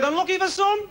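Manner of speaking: high, loud call from the crowd; woman shouting out. Retold or imitated. Woman in the bingo crowd shouting the number, high and loud. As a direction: shout it out from the back of the hall. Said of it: "this woman shouted out".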